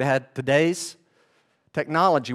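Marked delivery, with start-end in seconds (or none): none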